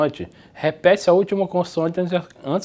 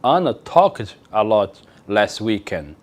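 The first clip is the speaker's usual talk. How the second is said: slow, careful English read; slow model sentence; 4 semitones lower, slower than usual. Shown as a demonstration. Teacher reads example sentence slowly to class. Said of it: "para colocar o verbo no passado".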